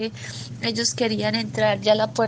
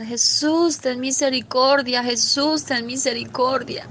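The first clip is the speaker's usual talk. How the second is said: retold cries for mercy. Crowd shut outside the door pleading to Jesus, raised cries. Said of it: "empezaban a gritar".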